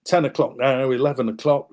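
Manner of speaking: rally the men, we're late; hurried soldiers. Retold or imitated. Soldiers hurrying each other to the surrender, loud and urgent. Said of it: "And they're going".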